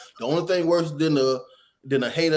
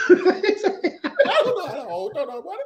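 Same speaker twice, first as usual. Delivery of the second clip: high quote; 13 semitones higher, faster than usual. Retold or imitated. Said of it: "repeating the quote".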